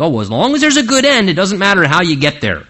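mock careless reasoning. Christians excusing a good end by any means, breezy mock. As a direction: toss it off like it doesn't matter. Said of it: "We think".

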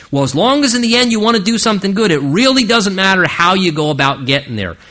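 mock careless reasoning. Christians excusing a good end by any means, breezy mock. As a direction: toss it off like it doesn't matter. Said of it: "we make that mistake".

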